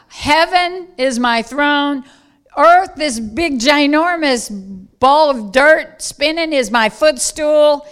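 emphatic preacher lightly voicing God; God's majestic declaration. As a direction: proclaim it as the supreme creator.

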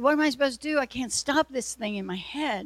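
a cry of frustration; desperate plea. Retold or imitated. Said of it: "I said".

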